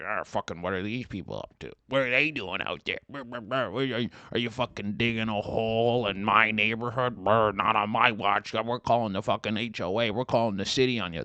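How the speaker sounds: grumbling busybody neighbor; nosy neighbor. Retold or imitated. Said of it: "you're like".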